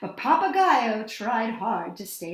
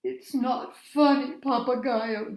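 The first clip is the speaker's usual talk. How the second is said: pouting; 2 semitones higher than usual. A narrator's reading. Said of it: "they said, pouting".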